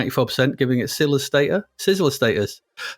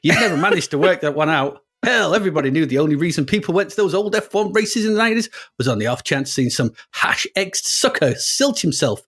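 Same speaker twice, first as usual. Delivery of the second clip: hammed-up American racer's narration, somewhere in America; American accent; 2 semitones higher than usual. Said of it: "it's somewhere in America".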